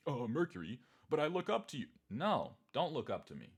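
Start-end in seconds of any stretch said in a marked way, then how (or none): 0.1-1.9 high, lightly voiced fawning fan; mock admiring fan. Mocking a fan who looks up to him. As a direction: gush like a starry-eyed follower.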